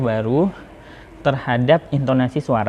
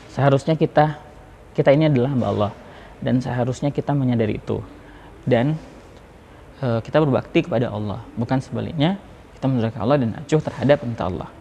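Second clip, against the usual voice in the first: sermon lines read out evenly at talking pitch; dull, uninflected sermon delivery; no intonation; faster than usual. Shown as a demonstration. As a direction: recite it with no lift on any word, sagging away by "perintah Allah". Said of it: "tausiah yang nggak ada intonasinya".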